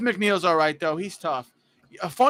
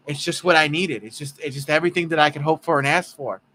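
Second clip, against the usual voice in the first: lightly voiced gee-whiz ballplayer; Jeff McNeil; faster than usual. Host imitating Jeff McNeil on his hitting streak, mild gee-whiz earnestness. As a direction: gush in an earnest, golly-shucks way. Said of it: "he talks completely different. He talks like".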